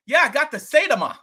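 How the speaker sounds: bragging about his coin, pumped up; imitating the neighbor.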